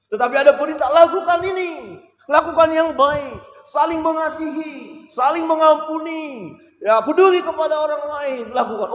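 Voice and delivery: high, loud listing of commands; fervent preaching. Real, not acted. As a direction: hammer each jangan home. Voicing God's command fervently. (daftar larangan yang dikhotbahkan lantang)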